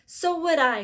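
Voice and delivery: put-on high, loud old woman cry. A narrator's reading. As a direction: cry out in agreement. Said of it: "cried Grandma Georgina".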